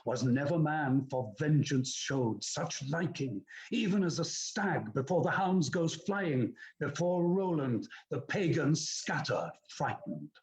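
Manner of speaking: dramatic verse recitation of a battle in full swing; stirring epic narration; exciting battle reading. Shown as a demonstration. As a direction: declaim the battle as it builds. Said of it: "So I get faster for that".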